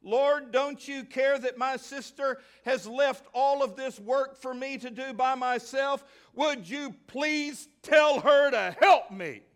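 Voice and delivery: high, whining, slowing plea at the end; irritable self-pity. Acted. Martha complaining to the Lord, an irritable whine. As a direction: grudge every word. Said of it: "grudging mood of irritable self-pity".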